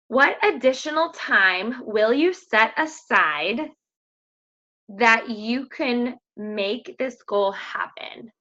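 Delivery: each word drawn out slowly, rising at the end; slow deliberate question. Shown as a demonstration. Coach putting the question to her team, slow and rising. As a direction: let the question sink in, slowly. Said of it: "coach asking the question slowly".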